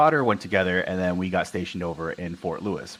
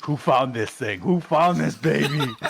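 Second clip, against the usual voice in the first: higher, drawn-out awestruck question; amazed bomb techs; 7 semitones higher, slower than usual. Retold or imitated. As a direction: marvel at the find in mock awe.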